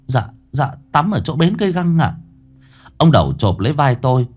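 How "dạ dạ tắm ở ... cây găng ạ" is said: put-on stammering boy. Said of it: "Tôi lắp bắp".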